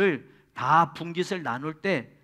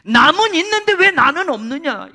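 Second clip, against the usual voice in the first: lament; 9 semitones higher, 11 dB louder than usual. Retold or imitated. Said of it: "하나님께 기도하고 통곡했다".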